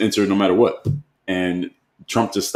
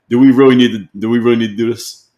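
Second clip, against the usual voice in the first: loud, raised exasperation, restarting the question; exasperated; 3 semitones higher, 6 dB louder than usual. Real, not acted. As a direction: push the question out in real disbelief. Exasperated at commenters misrepresenting a quote.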